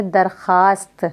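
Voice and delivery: दरख्वास्त said darkhaast, without w; silent waw. Shown as a demonstration. Teacher showing the reading, दरख्वास्त as darkhaast. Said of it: "हम वाव silent करके पढ़ेंगे".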